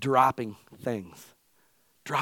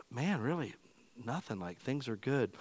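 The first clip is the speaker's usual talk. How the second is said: mock complacent; 2 semitones lower, 12 dB quieter than usual. Imitating a complacent churchgoer.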